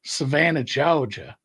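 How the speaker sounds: Southern drawl, dropping the R in Georgia; old-film coastal Southern accent. Shown as a demonstration. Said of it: "it's more of a drawl".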